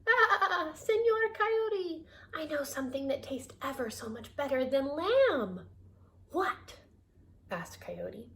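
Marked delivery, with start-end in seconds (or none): 0.0-5.7 high bleating lamb voice. Acted. Lamb tempting the coyote in high bleats. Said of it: "Boragita bleated". 6.3-6.8 high curious question; curious coyote. Acted. Coyote asking about the better food.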